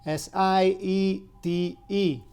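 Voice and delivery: letters "S I E T E" slowly spelled out; spelling it out. Shown as a demonstration. Teacher spells "siete" slowly for a student.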